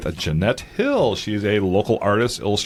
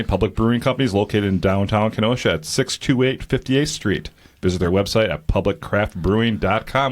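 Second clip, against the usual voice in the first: ad read. Acted. Reading the sponsor ad.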